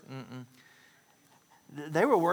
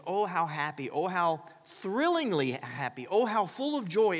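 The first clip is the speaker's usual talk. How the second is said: rising gush of joy, louder each oh; building delight; 3 semitones higher, 4 dB louder than usual. Acted. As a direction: swell into pure joy. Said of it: "a word that means".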